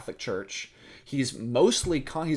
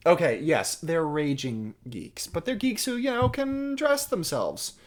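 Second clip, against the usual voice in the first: higher, emphatic concession with drawn-out words; flustered suitor; 6 semitones higher, slower than usual. Acted. Hal defending his band to Catherine, flustered. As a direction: defend your geeky friends, pitch climbing high. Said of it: "he's super nervous".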